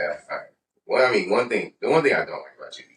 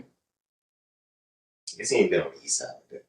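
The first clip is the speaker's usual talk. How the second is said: mock voice; 2 semitones lower, much slower than usual. Mocking himself in third person.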